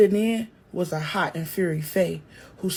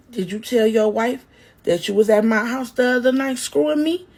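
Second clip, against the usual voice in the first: loud taunting yell; yelling back; 4 semitones higher, 5 dB louder than usual. Acted. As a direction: throw the secret in his face. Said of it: "Faye yelled back".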